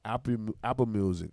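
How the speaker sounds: stumbling over the first word; real tongue-tied stumble. Real, not acted. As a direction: trip on Apple and restart it. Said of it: "I'm just tongue-tied right now".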